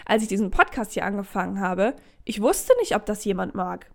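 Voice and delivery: a bit hoarse throat; hoarse frog in throat. Real, not acted. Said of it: "ich habe hier einen Frosch im Hals".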